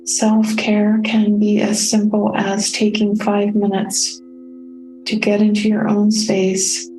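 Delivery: calm, unhurried meditation guide with long pauses; soothing, evenly paced meditation voice; guided meditation. Real, not acted. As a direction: guide listeners gently inward, leaving space between phrases. Leads a self-care meditation.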